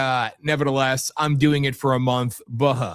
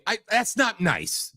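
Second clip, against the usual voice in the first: mock self-scolding; 7 semitones higher, 3 dB quieter, slower than usual. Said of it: "I should be more professional".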